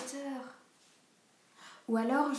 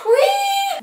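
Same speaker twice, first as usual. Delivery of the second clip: excited shout; 17 dB louder than usual. Real, not acted. Suddenly guesses the book.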